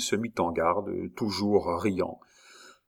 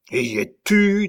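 appel impatient; 11 semitones higher, 5 dB louder than usual. Acted.

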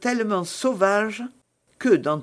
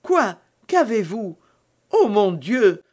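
higher, louder startled questions; alarmed; 3 semitones higher, 5 dB louder than usual. A narrator's reading. Novice sees Milady turn pale and cry out, alarmed. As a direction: exclaim in sudden concern.

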